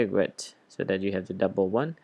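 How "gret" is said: "regret" reduced to its stressed GRET; stressed syllable isolated. Shown as a demonstration. Teacher points at the stress right here, second-syllable stress. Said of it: "so the stress right here".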